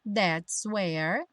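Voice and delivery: "That's where" joined, sounding like "that-swear"; linked as "swear". Shown as a demonstration. Teacher showing the junction, "That's where" as "that-swear". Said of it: "juntando swear".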